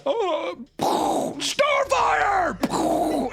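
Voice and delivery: high hammed-up wail of a name; mock anguished cry. Podcaster mocking the hero's grief, hammed-up wail.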